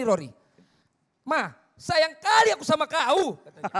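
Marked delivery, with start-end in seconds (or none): 1.2-3.4 higher, louder, slower Batak affection that sounds like scolding; Batak intonation. Retold or imitated. Batak guest showing how his people say I love you, loud and slow. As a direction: bark a loving line the blunt Batak way, slow. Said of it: "Kita bilang sayang aja begini".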